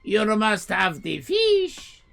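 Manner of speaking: very high, loud shouting owner; furious owner. Retold or imitated. Owner yelling at customers to order lasagna. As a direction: scream it like a furious restaurateur. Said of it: "owner insists".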